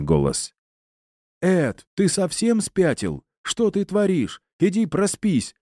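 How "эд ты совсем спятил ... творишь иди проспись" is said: much higher, far-off voice pleading; alarmed friend's voice. Acted. Invisible voice begging Ed to stop, much higher and alarmed. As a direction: shout at him to snap out of it. Disembodied voice scolding Ed.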